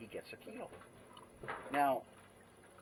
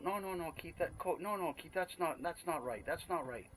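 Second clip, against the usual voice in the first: imitating Thai lady friend; 6 semitones higher than usual. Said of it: "She's going".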